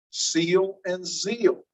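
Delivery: "Seal and zeal" drawn out very slowly; minimal pair demo. Shown as a demonstration. Teacher repeating the pair slowly for the class. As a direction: stretch out "Seal" and "zeal" to contrast s and z. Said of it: "Are those two different words?".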